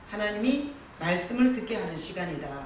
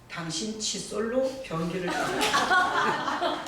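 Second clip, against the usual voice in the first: laughing punchline; slower than usual. Retold or imitated. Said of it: "이 부인이 "네".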